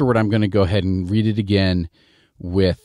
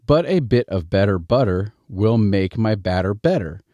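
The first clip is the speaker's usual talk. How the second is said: tongue twister in Midwestern American, middle T's as D's; Midwestern American accent. Shown as a demonstration. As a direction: read it in an everyday Midwestern accent, "bedder budder". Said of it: "Midwestern American accent".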